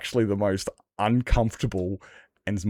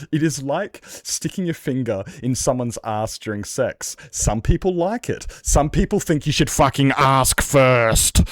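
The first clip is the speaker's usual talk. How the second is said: louder, rising mock British accent; 5 semitones higher, 5 dB louder than usual. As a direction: push the punchline in a hammed-up British accent. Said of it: "that was the wrong accent".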